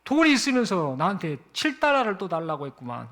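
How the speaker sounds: the father's anger rising again; irritated father. Retold or imitated. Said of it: "화가 또 나려고 했다고".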